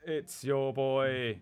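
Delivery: slow flat monotone. Pretend. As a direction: drone it out slowly, lifeless. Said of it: "monotone voice".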